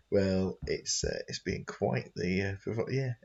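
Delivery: breathless, stumbling over words; out of breath. Real, not acted. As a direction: run out of air mid-sentence. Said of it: "I ran out of breath there".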